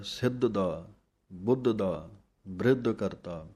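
ਬ੍ਰਿਧ said tight, with ਰ joined under ਬ. Shown as a demonstration. Teacher shows students the tight ਬ੍ਰਿਧ sound. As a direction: squeeze ਬ੍ਰਿਧ into one tight syllable. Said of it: "ਪਾਠ ਕੱਸ ਕੇ ਬੋਲਣਾ ਹੈ".

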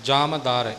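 ਜਮ ਦਰ as separate "jama dar"; careful pronunciation. Shown as a demonstration. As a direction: sound out ਜਮ fully before ਦਰ, never run together. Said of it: "ਇਹ ਵੀ ਉਚਾਰਨ ਦਾ ਖਿਆਲ ਰੱਖਣਾ". (ਜਮ ਦਰ ਵੱਖ-ਵੱਖ ਕਰਕੇ ਉਚਾਰੋ)

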